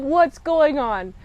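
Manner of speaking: mildly drawn-out puzzled question; confused viewer. Retold or imitated. Reviewer reacting to the captain's odd move, confused. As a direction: lean on WHAT'S, puzzled. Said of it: "So immediately I'm confused".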